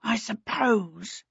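slow, soft, reluctant concession; sighing. A narrator's reading. Timmins gives in about paying the elves, slow soft sigh. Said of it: "He sighed".

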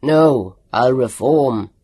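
loud desperate plea; a loud frightened plea for mercy; cried out. A narrator's reading. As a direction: cry out, begging. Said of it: "He cried out".

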